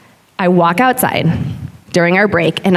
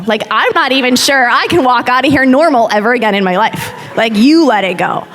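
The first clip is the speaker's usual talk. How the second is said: indignant retort; 3 semitones higher than usual. Retold or imitated. Inward retort to teacher's whisper.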